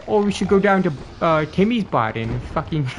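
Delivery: high, loud hammed-up Canadian; mock Canadian. Mocking Canadians over Timmy's bar, loud mock Canadian accent. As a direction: shout it like a rowdy hoser.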